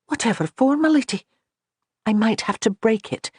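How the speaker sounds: a confused maid who can't follow; puzzled maid. Acted.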